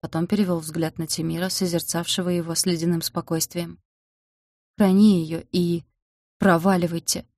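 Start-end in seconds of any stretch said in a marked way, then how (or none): 4.8-7.2 slow, held-back snarl that forces the words out; a restrained, choked-off furious growl; strangled growl. A narrator's reading. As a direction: growl it through a tight throat. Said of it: "прорычал сдавленно".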